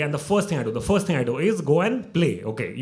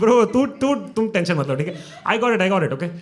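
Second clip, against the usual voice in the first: cocky reassurance; 5 semitones higher, 5 dB louder, much faster than usual. Retold or imitated. Reassuring panicking mom, loud.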